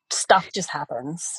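breathy secret whisper, slowed; hushed conspiratorial whisper; whispered aside. Real, not acted. Confiding aside about family.

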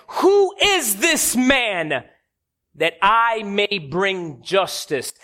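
very slow, weighty demand; a king demanding justice, drawn out word by word; mock indignant. Indignant King David answers the prophet, slow mock outrage. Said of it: "And David gets indignant".

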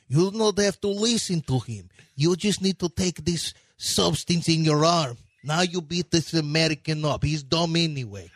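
understated mock Russian accent; movie Russian villain. Trainer sending his fighter against the American, movie-Russian accent. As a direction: coolly instruct in a heavy Slavic accent. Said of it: "now I'm about to fight Rocky".

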